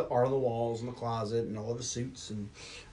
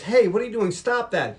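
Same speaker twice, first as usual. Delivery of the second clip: raised, higher confronting voice; retold challenge, pitched up; mock scolding; 7 semitones higher, 5 dB louder than usual. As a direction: call him out sharply, louder. Acting out woman confronting the killer.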